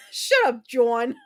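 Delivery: real laughing scold; laughing shut up. Real, not acted. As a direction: giggle it at John. Laughing at a chat teaser.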